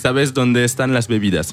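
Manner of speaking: Spanish phrase in a decent learner's accent. Shown as a demonstration. Radio host shows off beginner Spanish to singer guest, learner's Spanish accent. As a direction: try out Spanish, accent not bad. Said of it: "mais l'accent, c'est pas, c'est pas mal".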